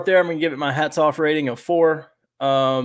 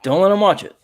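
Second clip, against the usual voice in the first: raised, higher voice, lecturing emphatically; mock yelling; 4 semitones higher than usual. Real, not acted. Host telling parents to know their kids, mildly yelling. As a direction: lay down the rule to parents, half yelling. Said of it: "I'm yelling at people now".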